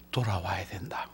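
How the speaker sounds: whispered plea to come back. Acted. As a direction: drop to a secret whisper. Preacher's hushed plea to return.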